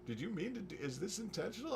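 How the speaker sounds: tentative reader. Retold or imitated. Imitates readers gently querying his blunder.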